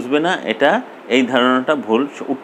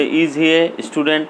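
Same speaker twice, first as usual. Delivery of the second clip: slow demo; 3 semitones higher, much slower than usual. Shown as a demonstration. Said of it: "তাহলে হবে".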